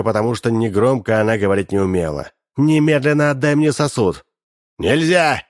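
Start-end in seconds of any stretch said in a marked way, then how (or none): 2.6-4.2 louder, a stern wife's order; loud demand. A narrator's reading. Wife ordering old Lozhkin to give up the flask, loud. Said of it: "сказала она громко". 4.8-5.4 a high yelp; squeal. A narrator's reading. Old man refusing to give up the flask, high squeal. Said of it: "взвизгнул старик".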